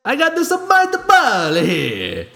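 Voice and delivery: very high, slow cartoon voice; high squeaky voice.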